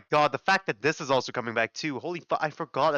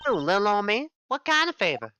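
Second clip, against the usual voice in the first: put-on Valley Girl voice; 5 semitones higher than usual. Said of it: "get the Valley Girl voice on fleek".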